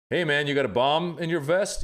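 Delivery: mock buddy ribbing; joking jab at friend. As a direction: toss out a teasing jab. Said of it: "do I right away go like".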